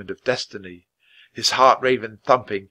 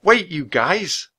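slow, higher raven croak in panic; panicked croak; 6 semitones higher, 3 dB louder, slower than usual. Acted. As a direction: plead with them to wait, croaking. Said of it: "He fluffed out his feathers and croaked".

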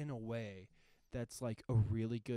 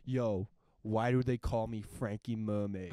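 Frankie Mermaid; 7 dB louder than usual. Retold or imitated. Plays gangster Frankie confronting the woman.

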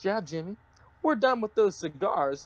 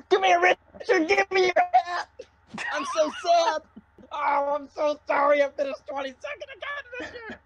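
high, louder whiny crybaby voice; mock whiny Bubba; 10 semitones higher, 3 dB louder than usual. Host impersonating Bubba begging Richard, high whiny crybaby. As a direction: whine like a sulking kid. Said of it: "And be like".

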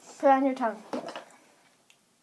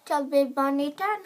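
cheeks stuffed full. Real, not acted. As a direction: mouth crammed with marshmallows. Mouth packed with marshmallows.

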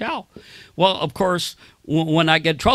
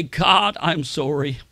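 repentant prayer; 3 semitones lower than usual. Shown as a demonstration. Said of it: "you say".

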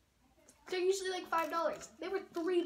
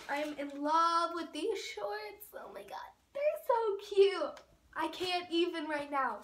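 excited gushing; 3 dB louder than usual. Real, not acted. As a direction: gush over the shorts. Gushing over shorts.

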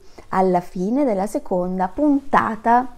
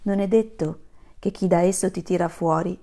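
gentle fable reading. Acted. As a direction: read the fable as if the kids are listening close. Reads a fable to children.

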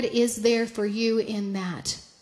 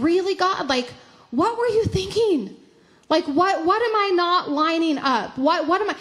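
higher, animated puzzled questioning; questioning God; 5 semitones higher than usual. Retold or imitated. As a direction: retell a baffled plea to God, no complaint. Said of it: "but in a questioning way".

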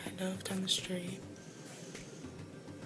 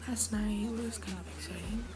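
soft, just-woken-up morning voice; 4 dB quieter than usual. Real, not acted. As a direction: talk with your morning voice. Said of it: "And I have a morning voice".

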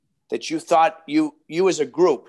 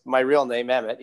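put-on Boston accent; 2 semitones lower than usual. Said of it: "he's got his Boston accent".

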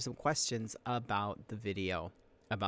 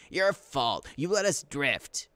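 mildly raised, accusing shout; Pinch, angry; 3 semitones higher, 3 dB louder, slower than usual. Acted. Boy blames his sister for the missed shot, angry accusation. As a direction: blame her in disappointed rage, not full force. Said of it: "Pinch shouted in rage and disappointment".

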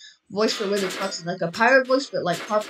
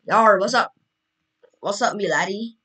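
lightly voiced pirate; a hint of a pirate growl. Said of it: "I'm doing this voice from now on".

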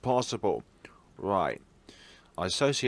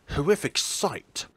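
hushed whisper; 4 semitones higher than usual. Acted.

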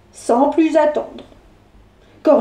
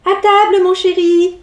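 calling out; 4 semitones higher than usual. Acted. Mother calling out.

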